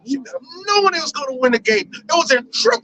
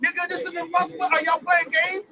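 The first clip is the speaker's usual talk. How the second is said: mock-baffled father, pitched up; indignant disbelief; 3 semitones higher than usual. Blind father challenging an unknown visitor, indignant. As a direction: demand answers, startled and annoyed.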